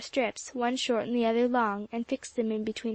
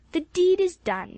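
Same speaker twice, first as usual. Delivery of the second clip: higher, louder declaration; triumphant exclamation; 7 semitones higher, 5 dB louder than usual. A narrator's reading. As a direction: announce it like a grand triumph. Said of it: "exclaimed Jasper".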